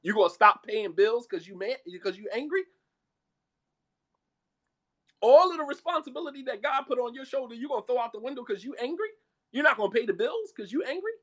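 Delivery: disbelieving, each question rising at the end; incredulous questioning. Real, not acted. Preacher challenging husband who stops paying, incredulous. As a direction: challenge him, pitch climbing on every question.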